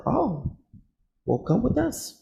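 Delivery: high, sing-song mock politeness; mocking the officers' sweet invite; mock official voice. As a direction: put on a fake-friendly voice.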